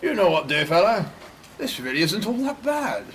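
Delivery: plummy aristocrat voice; posh oxford professor. Acted. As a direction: toff enjoying himself. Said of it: "posh men playing homeless".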